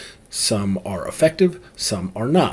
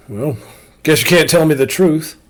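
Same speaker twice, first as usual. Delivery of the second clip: snide sarcastic jab, "can't" leaned on; passive-aggressive; 4 semitones higher, 6 dB louder than usual. Shown as a demonstration. Demo of passive-aggressive reply to a liar, snide. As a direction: say it with a sarcastic sneer. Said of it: "Passive aggressive".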